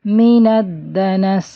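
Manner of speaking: من الدنس with the س hissed and held; الدنس ending on a running س; whistling seen. Shown as a demonstration. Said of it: "تھوڑی سی اس کی آواز چلے گی".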